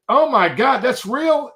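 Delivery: high, loud retold alarm; freaking out. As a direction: cry out in comic panic. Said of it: "And I said ... I flipped out".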